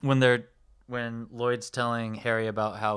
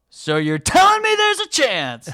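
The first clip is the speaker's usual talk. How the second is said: much higher and louder, slow and goofily hopeful; hopeful Lloyd; 9 dB louder than usual. Retold or imitated. Lloyd answering Mary's rejection, in a high hopeful squeal. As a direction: stretch it out with dopey, naive hope. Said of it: "So Lloyd says to her".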